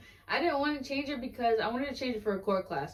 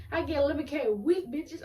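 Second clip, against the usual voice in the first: put-on higher, taunting kid voice; bratty rich kid; 7 semitones higher than usual. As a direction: gloat like a spoiled brat. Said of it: "She'd be like".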